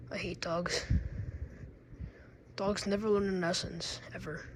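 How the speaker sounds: sigh, then a hushed whisper of disdain; whispered grumble. Acted. Toy sighing about dogs in a soft whisper. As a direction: breathe it out low and secret.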